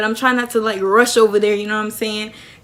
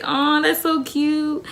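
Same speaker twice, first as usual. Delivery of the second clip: high, drawn-out coo; hyping friend; 5 semitones higher, much slower than usual. Acted. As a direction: stretch it out like an adoring onlooker. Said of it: "they were just hyping me up".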